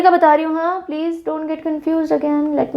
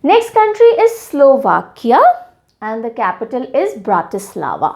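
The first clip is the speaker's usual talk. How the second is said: slow announcement; much slower than usual. Acted. Slow announcing of quiz item.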